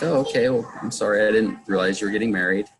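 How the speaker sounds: retold light kidding; joking. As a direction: tease a child with a pretend sorry. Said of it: "kind of joking with her".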